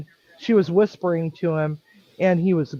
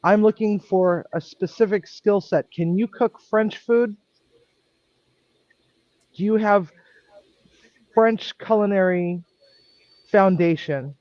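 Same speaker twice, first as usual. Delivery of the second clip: curt, pointed questions, pitched up and pushed; sharp; 4 semitones higher than usual. Retold or imitated. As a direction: fire the questions at her like a strict head chef. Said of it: "this is exactly how I'm sounding to her. I'm being very sharp".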